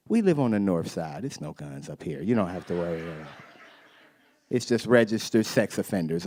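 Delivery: calm her down gently; soothing dad. Retold or imitated. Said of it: "I was just like".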